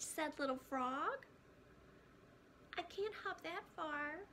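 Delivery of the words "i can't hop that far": gasped. Acted. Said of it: "gasped Little Bird".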